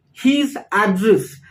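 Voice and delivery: "address" stressed on its first syllable, AD-dress. Shown as a demonstration. Teacher showing the noun for learners, first-syllable stress on "address". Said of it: "stress on the first syllable".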